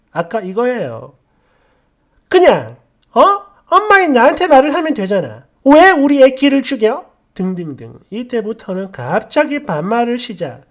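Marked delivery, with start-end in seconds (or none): 2.3-7.1 ranting mother. Retold or imitated. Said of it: "그냥 난리를 치더라고요".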